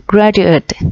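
"graduate" said with the -ed ending sounded as an extra syllable; careful teacher's "graduate" with a voiced-out -ed syllable; -ed ending pronounced. Shown as a demonstration. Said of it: "đọc phiên âm của âm này là E D".

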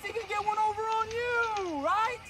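lightly voiced stern drill instructor; a hint of a barking boot camp sergeant. Plays drill sergeant to recruits.

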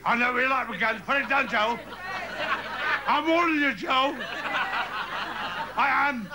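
high-pitched threatening cries; heated standoff. Acted. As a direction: warn him off, voice pitched right up. Acted armed standoff with Joe.

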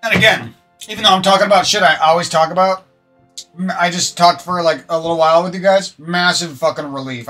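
normal talking voice

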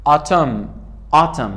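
"Autumn" ending on M, with no N; silent N. Shown as a demonstration. Teacher showing a silent final N, "Autumn" ending on M. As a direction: say "Autumn" as "awtum".

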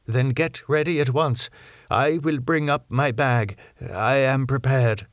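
Van Helsing, urgent. Acted. Professor tells doctor the patient needs blood, pressing old professor voice.

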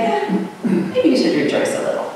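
a high, thin, unvoiced shrug of a line; mock a limp, shrugging call to joy; meek, half-hearted. Preacher mocking a meek Paul, limp and shrugging. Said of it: "and not meekly".

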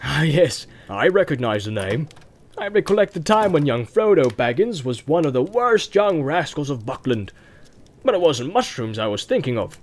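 put-on rustic farmer recalling old mischief; countryman's lilting storytelling; reminiscing farmer. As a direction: recollect a young rascal with relish.

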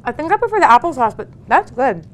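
talking through a mouthful of food; words round a bite of latke; mouth full. Real, not acted. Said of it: "I'm sorry for talking with my mouth full".

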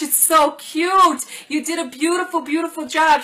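gushing over a cute present; delighted cooing. Real, not acted. Delighted by a handmade gift.

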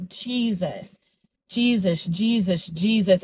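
hushed prayerful Jesus said to herself; moved, reverent. Real, not acted. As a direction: let it fall out of you, overcome. Overcome while reflecting.

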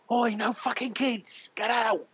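put-on high, loud furious bark at a kid; barman shouting. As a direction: throw them out of the pub with a yell. Barman shouts at halfling entering.

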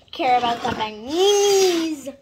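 said through a loud laugh. Real, not acted. Cook laughing about the bananas while talking to viewers. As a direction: giggle the words out.

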